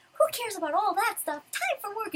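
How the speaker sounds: high, loud dismissive call; brash, eager cry. Acted. Natsu dragging Lucy off to work, brashly eager. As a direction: brush it off and rally the team.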